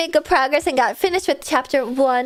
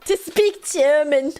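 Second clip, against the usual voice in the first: German accent tic; 3 semitones higher, slower than usual. Shown as a demonstration. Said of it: "vocal tick of mine recently".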